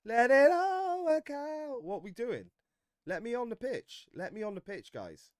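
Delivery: high, slow, whiny plea to be subbed on; drawn-out begging to get on the pitch; mock impatient Eze. Eze on the bench begging the manager, high and whiny. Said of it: "And Eze, he's there like".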